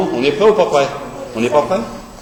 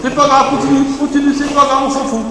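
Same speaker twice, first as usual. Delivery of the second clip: coaching shout; 7 semitones higher than usual. Real, not acted. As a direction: push them on with your voice. Coach pushes wrestlers during drill. (encouragement criée)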